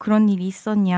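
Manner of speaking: plain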